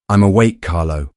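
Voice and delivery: loud menacing growl. Acted. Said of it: "Dominic growled".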